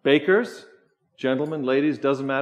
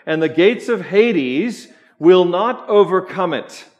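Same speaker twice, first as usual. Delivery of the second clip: louder, solemn reading of Jesus's words; scripture reading; 3 semitones higher, 6 dB louder than usual. Acted. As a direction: read the Gospel with weight.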